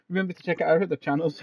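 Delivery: fast, laughing through the words; cracking up mid-sentence. Real, not acted. Repeated through laughter after joke.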